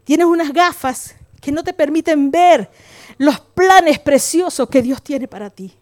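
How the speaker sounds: slow, tender pastoral urging; fatherly counsel. Retold or imitated. Pastor counsels hurt young woman like a father, slow gentle urging. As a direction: imitate a pastor gently counselling, unhurried, savouring each phrase. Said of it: "Y le conté y me dice".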